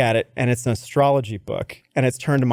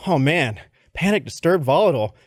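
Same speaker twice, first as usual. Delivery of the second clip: mock dismay. Boss repeats the candidate's weaknesses back, in mock dismay. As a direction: boss running through the list in one go. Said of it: "He goes".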